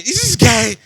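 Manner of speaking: high, mock-suspicious disbelief with a laugh; retold wondering. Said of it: "And I'm, and I'm wondering".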